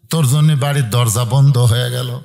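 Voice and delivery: low-pitched, falling pronouncement; father shutting his son out, pitched low; father's stern verdict. Retold or imitated. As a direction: lay down the banishment in a low register. Father's first telling of banishment.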